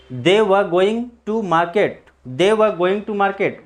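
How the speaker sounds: "were" as short va, no r; slowly, with "were" ending in schwa; silent r. Shown as a demonstration. Teacher modelling the sentence, "were" with silent r. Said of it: "आर के जगह पे replace अ".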